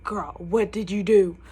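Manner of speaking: lightly voiced leader; group leader. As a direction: demand it like a sassy leader. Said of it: "My small group leader was like".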